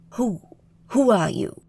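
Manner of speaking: sharp, suspicious demand; alarmed cowboy. A narrator's reading. Troy suddenly wary of Angel, sharp and suspicious. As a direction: back off and confront her.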